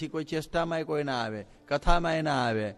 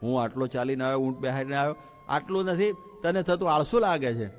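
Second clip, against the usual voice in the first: mild anger. Retold or imitated. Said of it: "પેલો ગરમ લાય જેવો થઈ ગયો".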